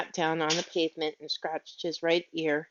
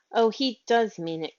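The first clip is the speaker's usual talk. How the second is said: a touch of louder dismay; dismayed cry; 3 semitones higher, 4 dB louder than usual. Acted. Miss Lark seeing Andrew leave, mild dismayed cry. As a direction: cry out as the dog turns away. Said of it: "cried Miss Lark".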